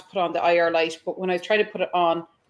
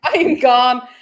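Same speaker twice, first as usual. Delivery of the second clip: panicked exit; 5 semitones higher, 8 dB louder than usual. Retold or imitated. Fleeing the black mass.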